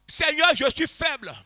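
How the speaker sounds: slow, fervent, building cry to the Lord; prière fervente, de plus en plus forte; model prayer. Shown as a demonstration. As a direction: show them how to pour out their thirst in prayer. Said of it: "exprime-le au Seigneur".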